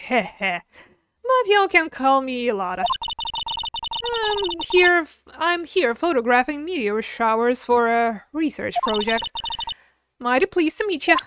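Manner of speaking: a touch of Southern twang; Southern woman voice. Acted. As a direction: play a sassy country gal. Southern character introduces herself.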